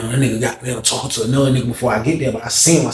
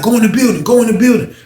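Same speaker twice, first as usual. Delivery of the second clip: mock guard order; 9 semitones higher, 3 dB louder than usual. Guards order them inside.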